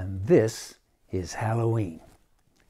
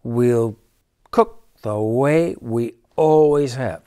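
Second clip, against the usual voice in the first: snapping cat; 5 dB louder than usual. Acted. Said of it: "snapped the cat".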